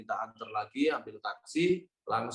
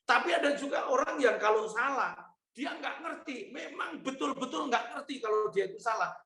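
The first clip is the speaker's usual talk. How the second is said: laughing; 12 semitones higher, 4 dB quieter than usual. Real, not acted. Preacher laughing at clueless people.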